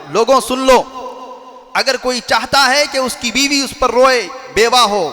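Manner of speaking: fervent rallying cry to the crowd; passionate proclamation. Acted. Umar addressing the gathered crowd, fiery and passionate. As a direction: Umar summoning the people, a fervent declaration. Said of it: "इतने पुरजोश अंदाज में".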